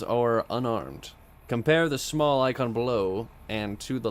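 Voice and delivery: measured commercial announcer read; polished game-manual narration. Pretend. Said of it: "I do it in my commercial read voice".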